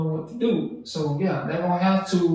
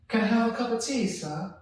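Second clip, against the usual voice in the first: imitated British accent; 5 semitones higher than usual. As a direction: imitate someone playing at British. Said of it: "like to talk British".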